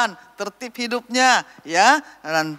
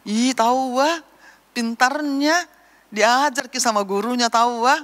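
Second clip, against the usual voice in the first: higher-pitched, mildly delighted admiration; admiring parent; 5 semitones higher than usual. Acted. Parent marvelling at small greeters, mildly delighted. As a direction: gush a little over the clever child.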